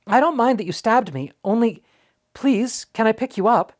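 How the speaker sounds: put-on fast, high, eager boy's pleading; very quickly. A narrator's reading. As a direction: rush it all out, hopeful and nervous. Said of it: "He said this all very quickly".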